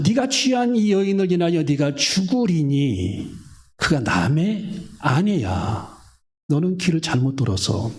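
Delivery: verse reread slowly, each word weighted; slow down and lean on 네가; deliberate slow scripture reading; slow emphatic reread. Shown as a demonstration. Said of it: "repeated verse read slowly".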